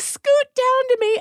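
coaxing mom. Retold or imitated. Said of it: "I'm like".

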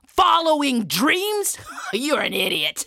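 loud jeer breaking into laughter; mocking laughter. Soldier laughing at Isaac for following dreams, scornful. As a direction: draw out the question, then laugh at him. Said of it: "the soldier started laughing".

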